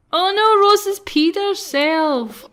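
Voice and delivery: slow horrified oh no; shocked exclamation. Real, not acted. Shocked at Sim accident.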